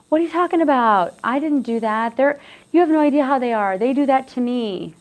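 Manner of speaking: mock protest of innocence; imitating an abuser. Speaker imitates a defensive abuser denying blame. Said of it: "they very often believe that he or she is the victim".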